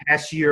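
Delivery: "patio" with sh in place of t; mispronounced patio. Shown as a demonstration. Teacher showing a common error, "patio" mispronounced with a sh. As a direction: say "patio" as "pashio". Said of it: "a lot of people probably pronounce that pa".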